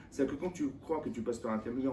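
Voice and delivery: normal talking voice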